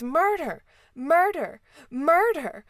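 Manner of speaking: high, loud mock shriek of alarm; crying murder. A narrator's reading. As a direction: cry it out like a repetitive screamer. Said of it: "She still cries".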